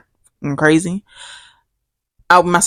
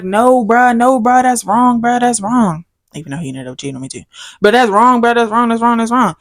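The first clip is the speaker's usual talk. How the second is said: mock pleading; 5 semitones higher than usual. Ex voiced apologizing, repeating.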